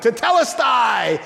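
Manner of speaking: slow, drawn-out mock cry; stretched-out declaration, mildly shouted; imitated shout. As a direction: proclaim it as if to the world, at moderate volume. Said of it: "but he shouted".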